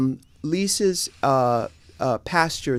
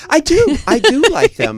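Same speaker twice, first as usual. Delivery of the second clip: I do like them, higher and louder with a hard push on do; emphatic I do; 13 semitones higher, 8 dB louder than usual. Real, not acted. Wife answering about her in-laws, emphatic I do. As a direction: insist on it, leaning hard into do.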